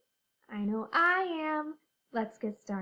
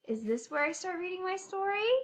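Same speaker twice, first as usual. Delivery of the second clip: higher, faster hopeful question; brighter, higher question; 6 semitones higher, faster than usual. Pretend. Teacher pretending to find the right story page. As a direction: ask it again, higher and faster.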